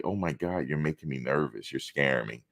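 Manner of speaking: soft, mock-fragile whine; mock scared voice. Mocking a coworker who claims to be scared, soft and whiny. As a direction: imitate someone acting scared of you. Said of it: "You ever hear somebody say".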